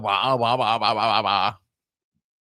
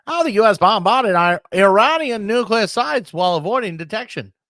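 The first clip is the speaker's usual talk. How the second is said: higher, louder headline read; news reporter; 9 semitones higher, 4 dB louder than usual. Pretend. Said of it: "I'm gonna talk like a reporter too".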